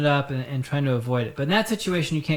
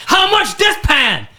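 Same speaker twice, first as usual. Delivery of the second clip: loud, high, slow barked Asian-accent imitation; mock Asian-accented customer, abrupt and shrieking; thick mock Asian accent; 12 semitones higher, 10 dB louder, slower than usual. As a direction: shout it in a hammed-up Asian accent. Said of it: "she had a very thick, like, an Asian type thing".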